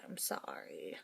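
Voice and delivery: sorry that comes out sarcastic; mock-pitying apology; sarcastic-sounding. Real, not acted. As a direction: apologise with an unintended sarcastic edge. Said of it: "That sounded very sarcastic".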